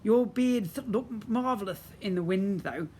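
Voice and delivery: high, teasing grin in the voice; fairy teasing a wizard; grinning fairy. Acted. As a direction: tease him cheerfully. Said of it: "added, grinning".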